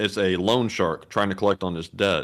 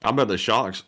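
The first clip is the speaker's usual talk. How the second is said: Boston accent. Real, not acted. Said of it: "I did a Boston accent on that".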